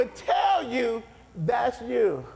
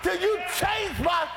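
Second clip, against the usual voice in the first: persistent prayer; 4 semitones higher than usual. Pretend. Believer refusing to quit praying, rising determined cry. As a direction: vow you will not leave until He answers. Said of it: "you gotta get to the place where you say".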